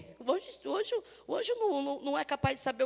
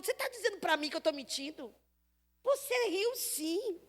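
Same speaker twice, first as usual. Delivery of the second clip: stern angel; 3 semitones higher, 3 dB quieter than usual. Acted. Angel confronting lying Sara.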